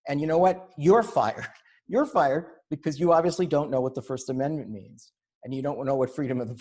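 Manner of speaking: loud, laughing mock firing; pretend firing. Imagined publisher firing protesting staff, loud and laughing. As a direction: boom out a pretend dismissal, half laughing. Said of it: "That's what he should have said".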